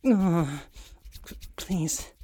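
breathless plea. Acted. Overstimulated pleading.

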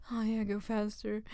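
urgent demand. Acted. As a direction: push it out urgently.

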